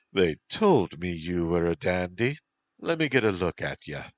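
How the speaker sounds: light Irish lilt for the pirate captain; Irish accent. Acted. Pirate captain greets her captive in an Irish accent. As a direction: voice her with an easy Irish brogue. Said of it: "a feminine voice said in an Irish accent".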